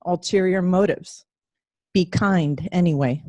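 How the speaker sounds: measured poem reading with long pauses; poem recital. Acted. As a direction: recite it line by line, letting each phrase settle.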